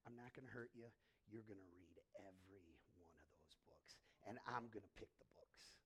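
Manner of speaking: low, soft, steely mother; stern low mother. Retold or imitated. Mother warns her son, low and soft. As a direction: lay down the law quietly. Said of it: "my mother goes".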